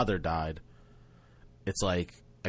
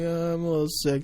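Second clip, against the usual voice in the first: higher, mock-poorly voice; pretend sick; 5 semitones higher than usual. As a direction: lightly play sick for a child's game. Uncle pretending to be sick in bed.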